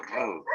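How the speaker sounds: "r" buzzed like a motorbike, softly; a quiet motor-like trilled "r". Shown as a demonstration. Teacher imitates the Spanish r as a motorbike, trilled. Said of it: "Como una moto".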